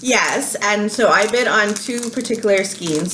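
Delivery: talking while crunching chips. Real, not acted. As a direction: speak between bites of crunchy chips. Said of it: "Sorry about the crunching".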